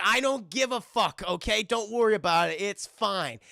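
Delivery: Adam snapping at the referee; dismissive snap. Retold or imitated. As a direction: wave the referee off, irritated. Sandler dismisses referee angrily.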